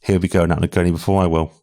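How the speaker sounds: light imitation of a thick Irish accent. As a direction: quote the boss in a hint of an Irish accent. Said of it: "in a thick Irish accent".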